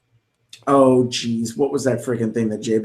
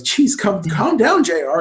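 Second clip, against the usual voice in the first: lightly voiced Lawler, pitched up on calm down; a quick, higher mock plea to calm down; imitating Jerry Lawler; 5 semitones higher than usual. Lawler teasing J R on commentary, mock high plea. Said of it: "looks at him and goes".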